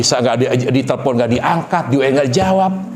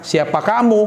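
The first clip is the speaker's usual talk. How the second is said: higher-pitched playing hard to get; jual mahal; 5 semitones higher than usual. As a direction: act like a choosy young woman. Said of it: "Dia jual mahal". (nada jual mahal)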